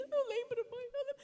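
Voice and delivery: put-on high little boy's voice; child's reply. Mother voicing her son remembering, high childlike. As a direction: answer like a small boy.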